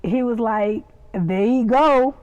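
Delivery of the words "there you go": slow imitated Southern drawl; lightly put-on country twang; country Southern accent. Quoting Louis gone country, slow Southern accent. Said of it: "Just country".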